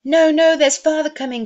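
put-on very high, loud children's cry; excited children's cry. A narrator's reading. Young Cratchits crying out that father is coming, thrilled. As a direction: shout it like thrilled kids spotting dad. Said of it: "cried the two young Cratchits".

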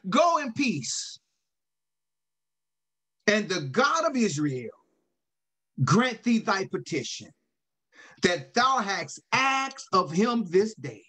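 measured blessing with long pauses; priestly blessing. Acted. Priest sends the praying woman off, solemn blessing. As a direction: pronounce it as a solemn benediction, lightly voiced.

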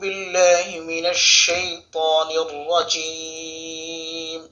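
slow, drawn-out chanted recitation; slow Quranic chant. Acted. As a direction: recite it slowly with melodic tajweed. Opens recitation with taawwuz.

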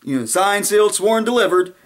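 high, proud, triumphant list; hammed-up boastful lawyer; mock Giuliani. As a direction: brag each word like a closing argument. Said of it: "He goes".

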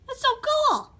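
very high, loud, stretched-out squeal; thrilled squeal. Acted. Red Yoshi marvels at creating his new voice, squealing with excitement. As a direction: squeal it with over-the-top delight.

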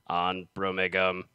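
different robot voice. Acted. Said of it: "a completely different robotic voice".

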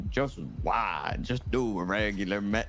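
British attempt at American sliding Southern; American accent that slips into Southern twang; accidental Southern accent. Shown as a demonstration. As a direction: try regular American, land in a Southern accent. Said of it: "see, that became Southern".

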